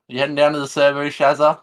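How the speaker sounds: high, quick hammed-up Aussie; mock Australian accent. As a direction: ask a mate in put-on broad Aussie. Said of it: "attempt at an Australian accent".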